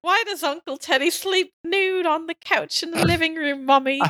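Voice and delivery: lightly voiced curious little kid; child voice. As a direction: ask it like a small child. Kid asking mom about uncle.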